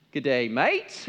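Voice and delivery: playful Australian greeting; mock Aussie greeting with a rising end; Australian accent. Preacher demonstrating the top-ranked accent to the congregation, Australian accent. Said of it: "The Australian accent".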